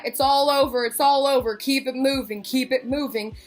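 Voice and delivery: lightly voiced guard calling out; imitated security guard. Security guard clearing the corner, lightly imitated call. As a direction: repeat it like crowd control.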